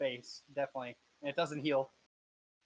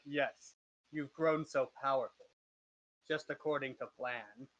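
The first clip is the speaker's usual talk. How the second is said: lightly deepened villain voice; measured gloating in a slightly deep voice. Acted. Game master as the master praising the party's power, lightly deep voice. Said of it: "he's like a deep voice".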